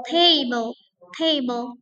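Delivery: table drilled, TA stressed. Shown as a demonstration. Teacher repeats table for students. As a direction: keep TA heavy. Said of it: "stressing on the first syllable".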